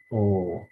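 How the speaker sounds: "O" held as one long vowel. Shown as a demonstration. Teacher showing omega's vowel, long drawn "O". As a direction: say a long, isolated "O". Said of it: "Omega has the long O sound".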